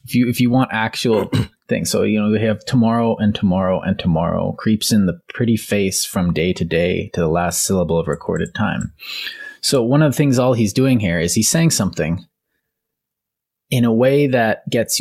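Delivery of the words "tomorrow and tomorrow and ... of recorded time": reciting Shakespeare aloud, unhurried; recitation. Shown as a demonstration. Podcast host reciting Macbeth to his cohost, recitation. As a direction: read it like a favorite passage. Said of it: "I'll take an excerpt here from one of my favorite parts".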